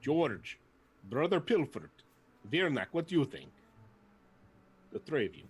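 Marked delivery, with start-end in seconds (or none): 0.0-3.5 hammy warrior. Acted. Zarg hams up his decision to the party, higher and grand. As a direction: proclaim it like a blustering zealot.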